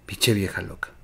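low, hushed whisper of a private insult; pensamiento murmurado. Retold or imitated. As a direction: whisper it like a thought kept to yourself. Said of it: "en su mente dijeron". (susurro, como pensando para sus adentros)

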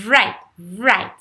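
"right" with a revved-up R like a motorbike; exaggerated R. Shown as a demonstration. Teacher demonstrating the motorbike trick, "right" with an exaggerated R. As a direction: overdo the buzzing start of "right". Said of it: "c'est exagéré".

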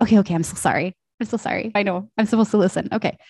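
a hint of a little kid pleading, rising at the end; light kid voice begging for love; mildly voiced apologetic child; silly little kid. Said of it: "that was my energy".

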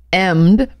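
emmed, with the H left off; dropped H. Pretend. Joking about French speakers, H dropped from emmed. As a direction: say hemmed as emmed, without its H.

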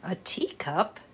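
whispered doubtful question; hushed skeptical aside. Acted. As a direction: breathe it out in disbelief.

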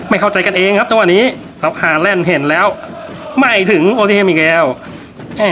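match commentator following each pass; football play-by-play. Pretend. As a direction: call the game live, name by name. Calls the match live. (พากย์ฟุตบอลสด)

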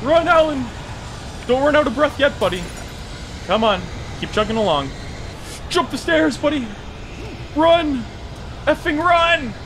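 high-pitched frantic yelling; urgent urging. Real, not acted. Player urging his character to flee, high urgent yells. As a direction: shout him onward, high and pressing.

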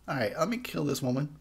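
unvoiced killer whisper. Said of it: "he's all".

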